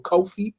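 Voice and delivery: "coffee" with a long o, COH-fee; "coffee" pronounced KOH-fee; coffee said like Kofi. Shown as a demonstration. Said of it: "Do y'all say".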